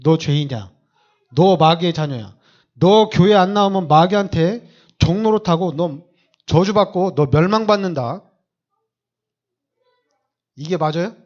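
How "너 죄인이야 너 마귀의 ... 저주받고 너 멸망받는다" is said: threatening. Retold or imitated. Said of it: "우리는 협박하죠".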